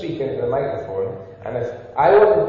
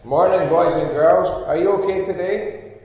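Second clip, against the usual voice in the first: louder, reaching the back without a microphone; projecting to the room; 4 dB louder than usual. Shown as a demonstration. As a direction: project it as if the mic is stuck far away. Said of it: "I would have to speak like this".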